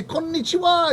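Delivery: high chirpy greeting; mock chirpy greeting. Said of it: "If I say".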